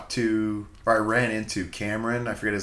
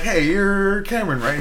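excited greeting; 11 semitones higher, 6 dB louder than usual. Retold or imitated. Retelling meeting a comedian.

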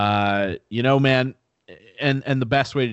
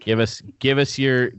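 put-on Australian accent; 2 semitones higher, 4 dB louder than usual. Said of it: "I'm gonna be speaking with a shitty Australian accent".

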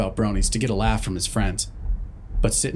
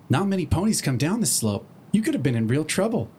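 Twilight voice; 5 semitones higher than usual. Acted.

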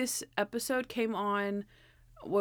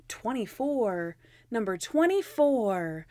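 starts whispered, builds to a louder exclaim; obsessive repeating; 4 semitones higher, 3 dB louder, much slower than usual. Retold or imitated. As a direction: chant the number to yourself, then burst out with it. Natalie fixating on apartment number.

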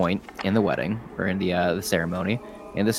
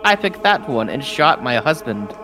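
high, indignant protest; indignant bride; 6 semitones higher than usual. Acted. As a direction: protest the forced marriage, pitched up. Bride protests forced marriage.

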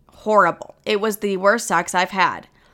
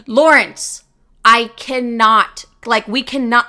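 exasperated; 4 dB louder, slower than usual. Retold or imitated. Retold exasperated reply to partner.

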